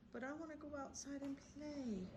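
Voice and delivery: high, soft whiny dog voice; dog's voice. Pretend. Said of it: "So he's like".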